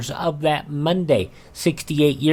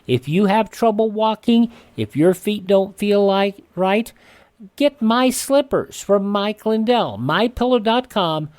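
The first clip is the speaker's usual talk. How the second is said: radio ad read; 3 semitones higher than usual. Acted. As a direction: sell the slippers to radio listeners.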